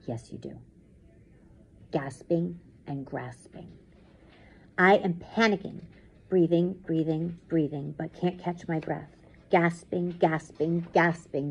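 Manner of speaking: measured, dramatic first-person reading; intense story narration. A narrator's reading. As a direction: tell the nightmare as it closes in. Reads story aloud.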